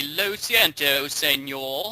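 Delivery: drawn-out Spanish in a mock British accent. Shown as a demonstration. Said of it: "speak like, Spanish with a British accent".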